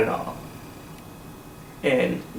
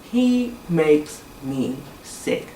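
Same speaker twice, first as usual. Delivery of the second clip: disgusted; slower than usual. Real, not acted. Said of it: "Disgusted is the word I'm looking for".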